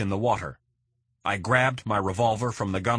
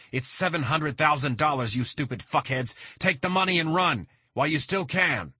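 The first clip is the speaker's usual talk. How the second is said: shouted insult; 7 semitones higher than usual. A narrator's reading. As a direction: scream it at the two brothers. Bennett shouting at the kidnappers.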